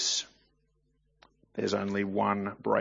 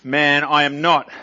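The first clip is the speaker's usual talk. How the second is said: a firm, louder denial; more emphatic than the first denial; 4 semitones higher, 9 dB louder than usual. Acted. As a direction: insist it flatly, shut them down. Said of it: "Bit more emphatic".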